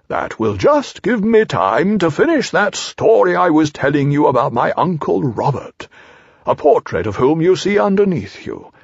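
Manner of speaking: resume a long-winded owl anecdote; self-important storybook owl; Owl holding forth. Acted.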